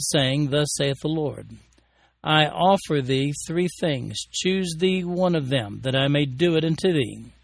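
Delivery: solemn King James scripture reading; booming biblical narration. A narrator's reading. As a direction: read it out like from the pulpit. Reads Bible passages aloud.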